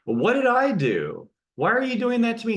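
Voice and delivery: mock indignant, as if stung by an insult; hurt disbelief. Imagined reaction to stranger's attack.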